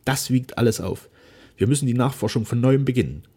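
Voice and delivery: a gentle daughter pledging herself; Flora's voice. A narrator's reading. Daughter promising her dying father, earnestly.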